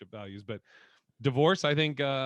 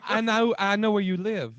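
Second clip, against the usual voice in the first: laughing; 7 semitones higher, 8 dB louder than usual. Acted. Joining pimp bit, laughing.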